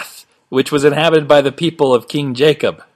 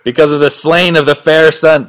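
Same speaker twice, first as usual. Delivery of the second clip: mock biblical prophet; 3 dB louder than usual. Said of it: "So this is Christ talking".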